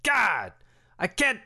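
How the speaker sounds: high, squeaky meat bat merchant; squeaky clicking bat. Acted. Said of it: "Borkat the meat bat?".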